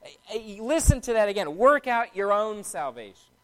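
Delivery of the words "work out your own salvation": emphasis falls on "own"; stress on "own". Shown as a demonstration. Preacher demonstrating the verse's English emphasis, stress on "own". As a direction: lean on the word "own". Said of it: "place a lot of the emphasis on the word own".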